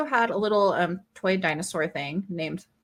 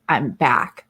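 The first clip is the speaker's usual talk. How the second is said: John Wick; 7 semitones lower, 4 dB louder than usual. Retold or imitated. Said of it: "like, from John Wick".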